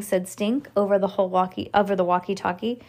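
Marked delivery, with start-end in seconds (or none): none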